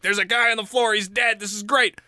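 high, excited gang chatter; mock celebration. Co-conspirators finding the body downstairs, high-pitched delight. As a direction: cheer it as a naive, delighted plotter.

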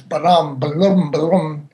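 scat the staggered entrances, lightly; sung-out ba-dum ba-lum to show sloppy timing; ragged entrances sung out. Shown as a demonstration. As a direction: mimic players coming in out of sync. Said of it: "the entrances are not together".

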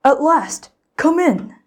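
high, loud eager welcome; bursting with excitement. A narrator's reading. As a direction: greet him like you can't wait. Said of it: "Mister Puff was bursting with excitement".

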